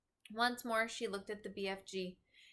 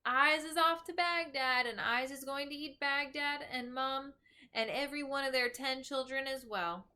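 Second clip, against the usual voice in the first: mock giant shout; 5 semitones higher than usual. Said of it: "waving his arms and shouting at me".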